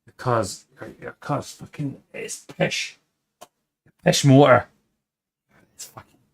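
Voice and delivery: lightly put-on Scottish accent, swearing at the customer; a hint of a gruff Scottish mechanic. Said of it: "it was a Scottish guy".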